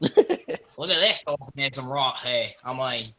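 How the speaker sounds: playful Australian nature-guide impression; Australian accent. Shown as a demonstration. Friend showing off her Australian on a specimen, put-on Australian accent. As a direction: show off a mock Australian accent. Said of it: "a really good Australian accent".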